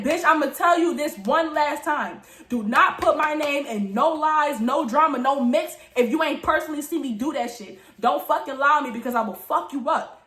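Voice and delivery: mild mock yell, each demand spaced out; retold yelling. Teller gives accuser one last warning, a mild retold yell. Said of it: "and now I'm yelling".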